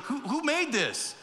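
mock astonished guest asking who made this wine; amazed wedding guest. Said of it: "He's freaking out".

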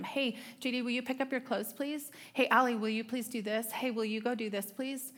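put-on a mother gently asking her kids to tidy up; speaking kindly. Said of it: "I tried really hard to speak kindly".

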